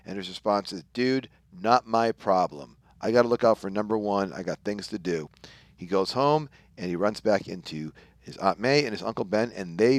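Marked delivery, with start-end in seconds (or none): 0.9-5.3 couldn't care less; understated smug dismissal; indifferent shrug-off. Retold or imitated. Selfish shrug-off quote.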